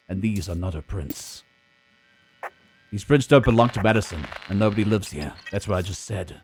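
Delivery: noir detective. Acted. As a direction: brood over the clues like a hardboiled detective. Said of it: "I like both voices".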